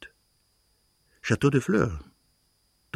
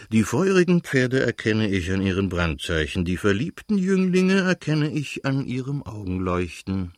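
declaiming. A narrator's reading. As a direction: declaim it like verse. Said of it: "deklamierte Stepan Arkadjitsch". (deklamierend vorgetragen)

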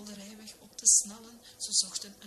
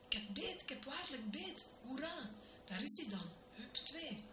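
mildly excited, pitch jumping up; excited catch; 7 semitones higher than usual. A narrator's reading. Minister announcing he has a bite, excited. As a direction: cheer the bite with rising excitement. Minister hooks a fish, cheers.

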